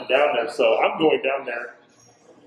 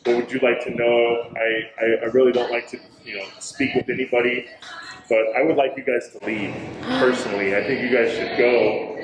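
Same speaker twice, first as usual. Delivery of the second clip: mildly lowered voice of a spirit; deep voice; 3 semitones lower than usual. Retold or imitated. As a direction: retell it a touch deeper, as the spirit. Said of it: "in a deep voice".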